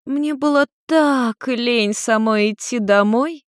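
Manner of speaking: high, slow, lazy tipsy drawl; tipsy mother excusing being carried home; lazy drunk mother. Acted. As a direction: stretch it out like a mother too drunk to walk. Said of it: "кивнула Нарико".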